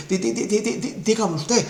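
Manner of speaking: mock terrified stutter on di-; stammering in fear. President answering Merkel's call, stuttering with fear. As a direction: stammer it out, too scared to speak. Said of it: "muerto de miedo".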